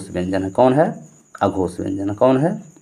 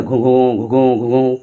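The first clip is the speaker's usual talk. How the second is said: mild mock blast of a blown battle horn; spoken horn-call imitation; imitated war horn; slower than usual. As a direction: hoot like a war horn, lightly. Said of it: "बहुत तेज़ आवाज़ में निकलती".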